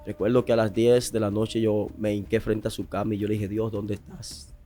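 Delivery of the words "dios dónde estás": slow pleading prayer. Retold or imitated. Desperate prayer at mother's deathbed.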